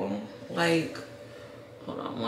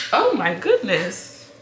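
startled exclamation; 9 dB louder, slower than usual. Real, not acted. Baby startles/cries.

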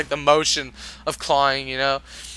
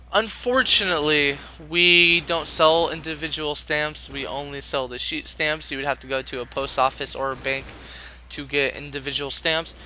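polite clerk voice; 5 dB quieter than usual. Retold or imitated. Telling the customer there are no single stamps, politely and quietly. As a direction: soften it like a sorry cashier. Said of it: "Here's the exact conversation".

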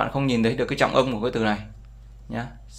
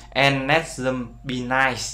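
slow verse reading; much slower than usual. Shown as a demonstration. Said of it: "Đây nó sẽ gì?".

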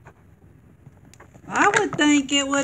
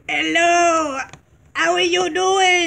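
squeaky toy voice; 5 semitones higher, 5 dB louder than usual. Pretend. Voicing the squishy toy.

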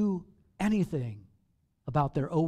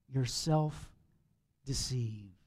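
slow, low, deliberate; a slow, low verdict; quoting James; 6 semitones lower, 7 dB quieter, much slower than usual. Acted. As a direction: lay out the charge slowly.

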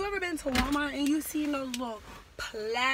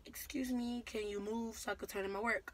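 calm, polite, respectful ask; polite request; 5 dB quieter than usual. Retold or imitated. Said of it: "I said it like a regular, you know, regular tone, nice".

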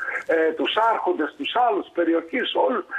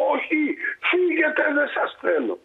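sharp, much higher refusal; angry shout. Retold or imitated. Lord refuses the three strangers, angry shout. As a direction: snap them away. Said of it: "lord refuses strangers".

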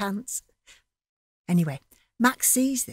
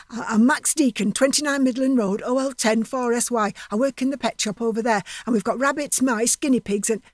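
gabbling; 3 semitones higher than usual. Acted. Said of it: "gabbling all random like".

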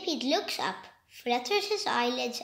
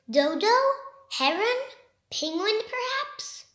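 searching call; 7 semitones higher than usual. Acted. Searching, calling friends.

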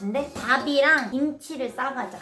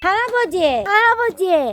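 calling out; 5 semitones higher, 8 dB louder than usual. Real, not acted. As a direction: shout for grandpa across the house. Calling grandpa from outside.

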